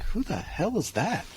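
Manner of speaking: high-pitched, drawn-out incredulous quote; mock disbelief. Hearing your own recording for the first time, mock disbelief. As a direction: act out slow, baffled disbelief at a high pitch.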